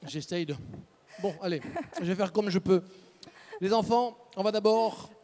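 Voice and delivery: speaking with caramel stuck to teeth; chewing sticky toffee. Real, not acted. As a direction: mouth full of sticky candy. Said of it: "Ça colle aux dents".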